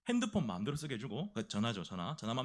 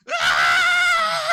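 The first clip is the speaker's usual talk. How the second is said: long, high shouted "aah"; drawn-out charging monster scream; monster roar; 14 dB louder, much slower than usual. Acted. Private running in as Charizard, screaming long and high.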